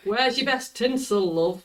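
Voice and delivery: slow, friendly Yorkshire accent. Shown as a demonstration. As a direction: say it like a Yorkshire shop lady. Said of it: "Can you say that in your best Yorkshire accent for us?".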